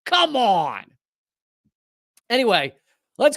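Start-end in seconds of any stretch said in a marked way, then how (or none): 0.0-0.9 slow, drawn-out incredulous scoff; mock disbelief. Host scoffing at a list of supposed countries, mock disbelief. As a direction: stretch it out in exasperated disbelief, falling away on each phrase. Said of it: "on there that you go".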